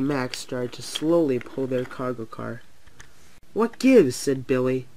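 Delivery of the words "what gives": high-pitched, startled question; surprised. A narrator's reading. Billy sees Mighty Mac moving, surprised. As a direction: voice jumps up in puzzlement.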